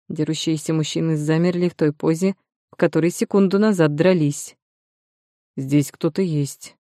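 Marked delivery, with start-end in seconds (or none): 5.6-6.8 put-on tongue-tied drunk, hushed and slow; drunken slurred whisper. A narrator's reading. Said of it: "заплетающимся языком прошептал тот".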